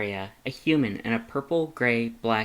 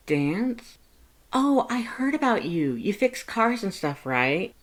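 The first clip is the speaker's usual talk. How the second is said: cheerful Frisk voice; 10 semitones higher than usual. Acted. Frisk telling Lust about college, high and bubbly. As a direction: brag happily to a friend.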